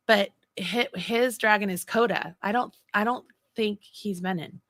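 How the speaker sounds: ordinary talk, nothing marked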